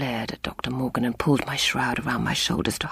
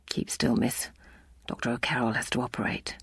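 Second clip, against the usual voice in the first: kind; 4 semitones lower, 7 dB quieter than usual. A narrator's reading. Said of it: "sounded almost kind".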